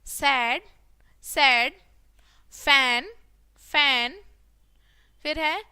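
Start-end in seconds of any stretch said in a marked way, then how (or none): 0.0-4.2 loud, spaced-out word drill; ज़ोर से बोलना. Shown as a demonstration. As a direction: call out each word loudly for the class. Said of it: "इसको जोर से बोलेंगे". (ज़ोर से, एक-एक शब्द बोलते हुए)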